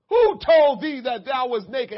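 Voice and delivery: slow, loud, thundering question; booming voice of God. Acted. Preacher voicing God questioning Adam, slow and booming. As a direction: let God's question ring out slowly.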